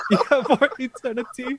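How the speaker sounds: very high, theatrical villain; Bond villain voice. Retold or imitated. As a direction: gloat over the trapped hero. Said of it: "It's like after you poison Bond".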